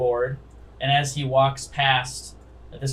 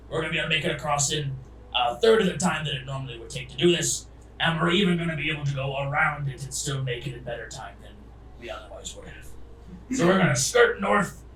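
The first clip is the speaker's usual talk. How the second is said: lightly voiced captain's briefing, brisk in places; ship captain; 2 semitones higher, faster than usual. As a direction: warn the passengers as their captain.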